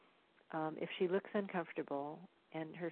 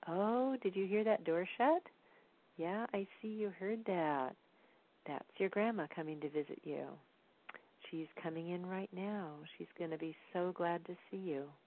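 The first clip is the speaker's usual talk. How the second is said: put-on talking to baby. Parent tells baby grandma is coming to visit, lilting and reassuring. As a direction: point out a sound to a baby, then reassure gently. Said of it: "things you might want to tell your baby".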